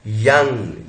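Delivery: "यंग" opening on a clear य; Y sound. Shown as a demonstration. Teacher explains the J-like symbol is य, Y sound. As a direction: begin "यंग" with a Y glide. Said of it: "ये य है".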